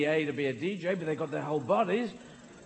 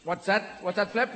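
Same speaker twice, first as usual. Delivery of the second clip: dolphin voice; 4 semitones higher than usual. Acted. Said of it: "dolphins came up going".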